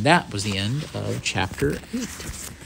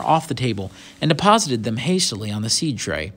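story narration; 2 semitones higher, 3 dB louder than usual. A narrator's reading. Reads the story aloud.

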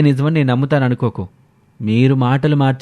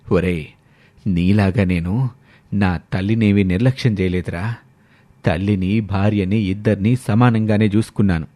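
stern father; 5 semitones lower than usual. Acted. Father scolds his son over mother, lower stern voice. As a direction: speak as the wounded, stern old father.

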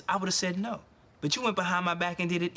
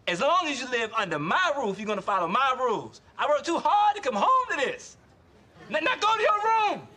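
stern father lecture; 4 semitones higher than usual. Acted. Father doing stern speech take.

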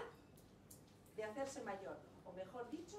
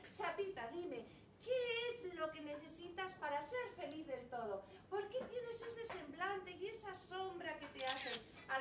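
queen mother; 3 semitones higher than usual. Acted. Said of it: "Dijo, the queen asks her daughter".

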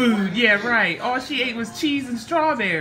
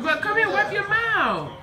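high sing-song call; 12 semitones higher, 4 dB louder, slower than usual. Acted. Calling toddler to wipe face.

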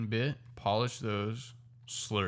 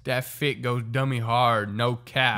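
slow, louder, lightly voiced grandma; grandma slang voice; 5 dB louder, slower than usual. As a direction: spell out the slang slowly, like grandma. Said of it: "All right, Grandma, say this".

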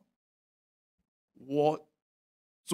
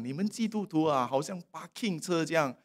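sarcastic critic. Retold or imitated. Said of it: "有些人就讲一些讽刺的话".

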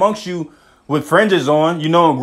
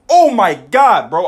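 a sudden slow, rising "Oh my God", louder; real excitement breaking through mid-reading; getting excited; 2 semitones higher, 3 dB louder, slower than usual. Real, not acted. Preacher thrilled that the scripture backs him up, excited. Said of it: "I'm getting a little excited".

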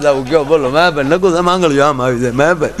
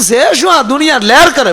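mock surprised question; 9 semitones higher, 3 dB louder than usual. Jokingly asking the friend about life.

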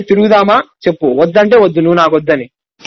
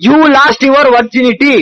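very slow, higher, mocking emphasis; slow taunt; 5 semitones higher, much slower than usual. Real, not acted. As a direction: drag each word out to wound her. Taunting girlfriend during fight.

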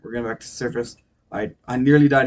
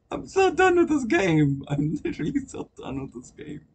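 raging gamer; 11 semitones higher than usual. Real, not acted. Rage at game.

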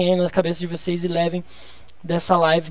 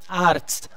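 Arzt with the weight on the opening A; stress on A; 3 dB quieter than usual. Shown as a demonstration. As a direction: lean on the A of Arzt, then crisp tst. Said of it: "A sílaba tônica sempre no A".

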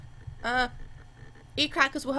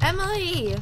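calling out; 6 semitones higher than usual. Real, not acted. Calling out to game character.

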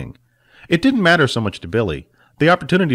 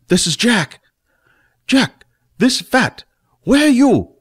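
Jack lightly higher, then Fat much higher and louder; Jack then Fat on the orb; 12 semitones higher, 4 dB louder, slower than usual. Acted. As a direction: jumps to a squeaky little man calling.

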